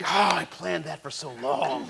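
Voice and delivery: slow, letting the act drop; relaxed, deflated sigh. Acted. Villain gives up his long-planned ambush, slow deflated sigh. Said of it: "he totally relaxes".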